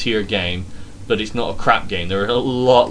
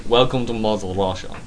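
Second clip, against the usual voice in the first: put-on Russian accent with rolled R's. Shown as a demonstration. Host welcoming listeners to Russia, put-on Russian accent. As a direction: roll the R's like a mock Russian. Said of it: "I can do the Russian accent".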